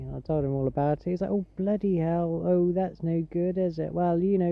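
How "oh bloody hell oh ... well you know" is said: lightly put-on Gloucestershire farmer accent; farmer's accent. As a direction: sympathise like a West Country farmer. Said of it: "traditional farmer's accent".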